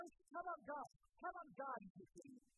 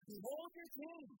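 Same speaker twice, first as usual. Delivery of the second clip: mock regal announcement; 5 semitones higher than usual. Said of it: "and says".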